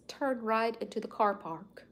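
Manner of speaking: lightly mimicked British satnav voice; a hint of a British accent, imitating a GPS. Woman mimicking her British satnav giving directions, light British accent. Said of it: "It's a British accent".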